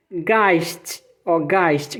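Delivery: Geist said as gaist, German diphthong; scene: teacher models German word for students, slow and clear. Shown as a demonstration. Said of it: "Geist é fantasma".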